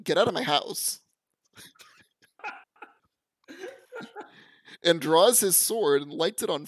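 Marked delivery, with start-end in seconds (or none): 0.0-1.0 loud, commanding order; angry shout. Retold or imitated. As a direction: bark it at the intruder. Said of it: "And he's like".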